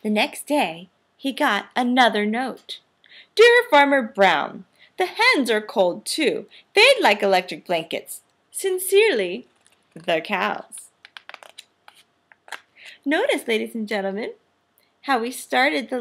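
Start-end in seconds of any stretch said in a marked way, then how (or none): 3.3-10.9 letter voice. Acted. Cows' letter read aloud.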